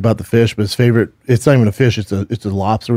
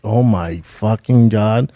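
slow, stunned retold oath; slowly sinking-in shock; 2 semitones lower, much slower than usual. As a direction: drag it out in mild disbelief. Retold shock at nurse's diagnosis.

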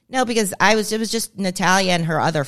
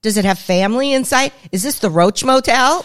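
freaking out; 2 semitones higher, 5 dB louder than usual. Retold or imitated. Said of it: "I was flipping out".

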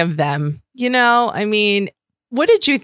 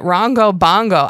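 louder, bouncy "Wrong go bongo"; playful repeat; 5 dB louder than usual. Shown as a demonstration. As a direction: savor the silly phrase. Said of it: "I like it".

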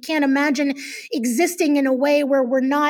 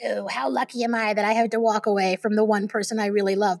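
sarcastic; 4 semitones lower, 3 dB quieter, faster than usual. Retold or imitated. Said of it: "I would sort of be all sarcastic".

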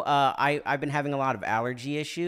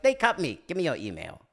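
lightly voiced actor impression; James Hong; 2 semitones higher, 3 dB louder than usual. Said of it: "much better James Hong impression than me".

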